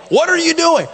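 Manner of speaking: high, indignant mock squeal; playing the shocked objector; a hammed-up outraged question; mock alarm. Reluctant member objecting.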